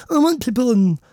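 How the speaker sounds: high, put-on self-important voice; hammed-up arrogant declaration; mock arrogance. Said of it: "The arrogance".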